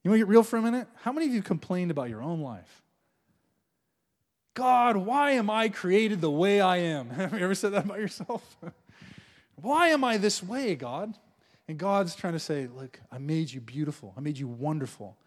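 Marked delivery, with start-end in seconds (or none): 4.5-7.1 drawn-out self-pitying question to God; slow mock whine. 9.5-11.1 drawn-out self-pitying plea; slow mock whine. 12.7-15.2 lower, softer reassuring voice; gentle voice of God.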